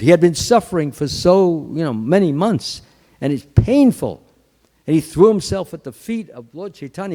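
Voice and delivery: ordinary delivery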